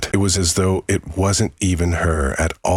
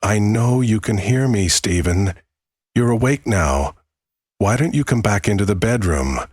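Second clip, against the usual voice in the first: witch voice; 4 semitones higher than usual. Acted. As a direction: lure him in like a witch. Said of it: "It sounded like a witch".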